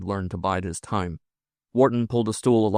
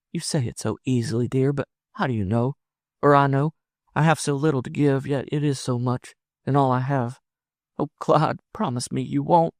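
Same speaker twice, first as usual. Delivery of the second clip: high woman's voice, earnest and anxious; pleading woman; 6 semitones higher than usual. Acted. Woman begging her lover for a promise, anxious. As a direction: implore him, pitched up high.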